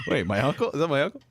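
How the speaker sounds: a different voice with a mock shout, rising on the questions; imitating Dennis. Host imitating Dennis imitating Uncle Eldon, mock shout. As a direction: playfully take off a co-host doing his uncle. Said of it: "That's me imitating Dennis, uh, imitating Uncle Eldon".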